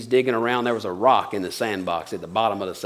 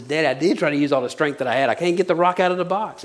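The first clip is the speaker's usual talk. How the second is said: put-on higher, quicker protest of a frustrated child; lightly voiced upset boy pleading with Daddy; a hint of a tearful kid, pitch climbing; crying little boy; 5 semitones higher, faster than usual. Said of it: "the little boy is crying".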